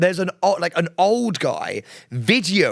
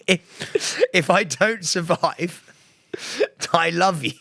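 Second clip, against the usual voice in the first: mock melodrama; 2 semitones higher, slower than usual. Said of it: "You're one of the most dramatic people".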